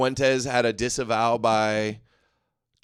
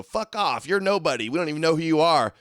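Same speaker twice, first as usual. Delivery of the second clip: dismissive retort; 5 semitones higher than usual. Acted. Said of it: "and we go".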